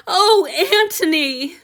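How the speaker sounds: high, loud, slow joyful cry; overjoyed cry. Acted. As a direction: call his name in relief. Han Yu overjoyed he woke.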